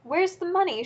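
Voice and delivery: high, sharp yell of a furious wife; screaming demand. A narrator's reading. Wife demands the money from her husband, shrill yell. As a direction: demand it with a shriek. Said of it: "she screamed".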